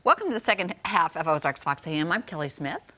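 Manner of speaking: lightly soothing radio host welcome; mildly hushed radio presenter; Delilah. Shown as a demonstration. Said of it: "make it very Delilah".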